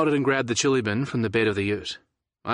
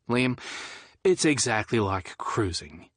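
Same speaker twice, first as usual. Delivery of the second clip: deadpan; slower than usual. Acted. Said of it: "I deadpanned".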